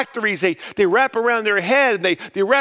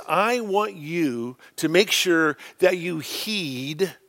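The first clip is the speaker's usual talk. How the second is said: slow solemn charge; 2 semitones lower, slower than usual. Acted. Preacher voicing Moses' charge slowly.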